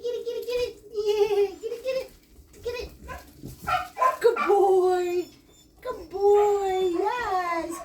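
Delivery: high, bright-pitched praise for the dog; excited puppy talk. Real, not acted.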